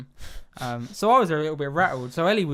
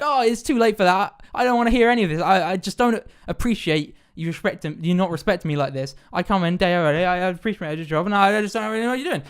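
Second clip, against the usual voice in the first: loud retold indignant rant; aggressive driver; 4 semitones higher, 5 dB louder than usual. Taxi driver rejects passenger's apology, aggressively retold. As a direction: imitate an offended driver refusing an apology. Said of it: "starts getting a bit aggressive".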